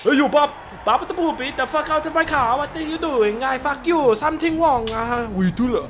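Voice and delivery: high-pitched, accented mock rant; angry car owner. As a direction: play a furious owner in a squeaky hammed-up voice. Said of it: "fucking guy that owns it would come running along".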